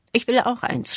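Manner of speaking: high, loud call from the back; shouting. A narrator's reading. Old man at the back demanding a gift, loud high shout. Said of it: "schreit ein Mann von ganz hinten".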